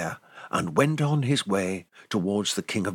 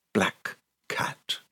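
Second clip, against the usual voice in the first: hushed; 5 semitones lower, slower than usual. A narrator's reading. Hushed ending of bedtime story.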